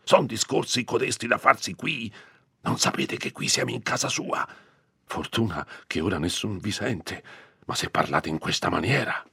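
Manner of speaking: a nervous curate hushing a careless woman; rebuking priest. Acted. Priest rebuking Agnese near the castle, high and tense.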